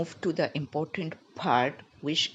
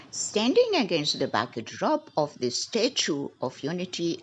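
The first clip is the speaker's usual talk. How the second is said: fast reading. Shown as a demonstration. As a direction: read the news paragraph briskly and fluently. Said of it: "I'm going to read it fast".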